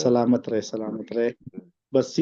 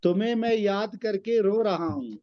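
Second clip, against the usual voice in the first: poem recitation. Acted. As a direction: recite the couplet with weight. Recites qita verses.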